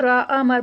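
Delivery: امر with a short final vowel, no long a; correct short ending. Shown as a demonstration. Teacher modelling امر for the student. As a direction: say امر crisply, no stretched ending. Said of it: "آخری حرکت لمبی نہ ہو".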